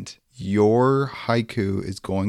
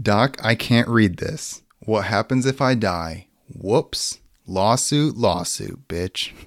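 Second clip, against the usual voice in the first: measured reading, drawn-out first line; haiku recital; slower than usual. Acted. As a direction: present the poem line by line.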